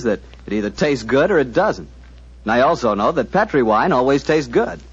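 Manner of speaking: smooth sponsor pitch, even and assured; ad read. Acted. Announcer selling Petri wine to radio listeners, warm ad read. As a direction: sell the wine like a trusted family name.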